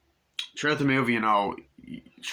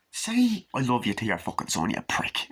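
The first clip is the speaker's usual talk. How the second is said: mock scolding; 3 semitones higher than usual. Viewer scolding the father.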